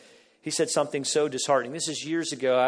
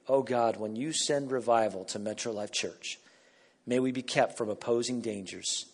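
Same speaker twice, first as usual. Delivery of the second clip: prayer. Acted. Prays word for word.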